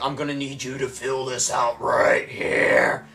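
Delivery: slow, bossy order; curt clerk. Retold or imitated. Clerk ordering him to fill in a form, slow bossy. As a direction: lay down the order slowly. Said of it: "she's like".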